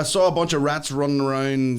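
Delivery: reading out. Acted. Host reads a rat question to co-host, reading out. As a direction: read it up and out like a host.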